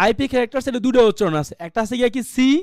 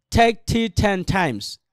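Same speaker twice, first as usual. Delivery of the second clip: "take tea ten times" a little quicker, words closer together; picking up speed; much slower than usual. Shown as a demonstration. Teacher asks students to add speed, a brisker take. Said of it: "এরপর আরেকটু গতি বাড়ান".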